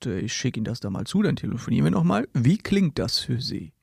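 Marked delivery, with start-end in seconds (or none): 2.3-3.7 slow, drawn-out canned question; a hint of a slick salesman; mock salesman. Salesman asks the customer at the end of the pitch, slow mock. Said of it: "ich habe da ein ganz besonderes Angebot".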